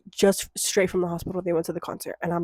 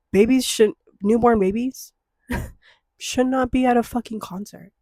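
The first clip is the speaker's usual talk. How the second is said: louder, higher, heated with a laugh; getting mad; 3 semitones higher, 5 dB louder than usual. Real, not acted. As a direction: let the irritation build. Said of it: "now I'm gonna get mad about it".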